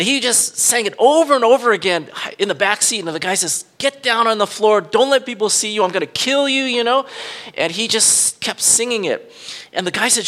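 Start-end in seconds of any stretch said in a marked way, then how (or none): 3.8-6.6 mock carjacker threat. Retold carjacker threatening the child.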